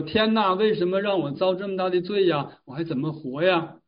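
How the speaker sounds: a hint of a desperate man's outcry; mock despairing cry. Jailer cries to heaven before suicide, mildly acted despairing cry. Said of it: "临自杀前大喊了一声".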